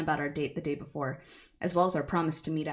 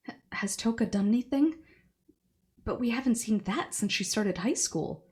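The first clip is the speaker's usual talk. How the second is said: alarmed mother; 6 semitones higher than usual. Acted.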